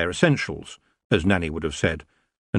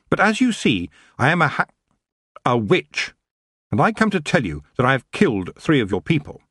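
high, raised and resolute; firm young witch; 7 semitones higher than usual. A narrator's reading. Tiffany warning the king, high firm announcement. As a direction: announce it boldly. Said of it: "she said firmly".

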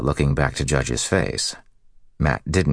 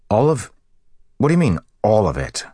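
incredulous; 7 semitones higher, 4 dB louder, faster than usual. A narrator's reading. Matt shocked by huge demand.

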